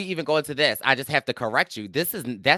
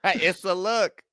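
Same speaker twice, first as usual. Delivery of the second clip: laughing, sassy; 7 semitones higher, much slower than usual. Real, not acted. Echoing, laughing.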